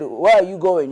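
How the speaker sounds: put-on a cruel schoolboy's copy of the accent; a child mocking a classmate's accent. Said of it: "he said it in the accent".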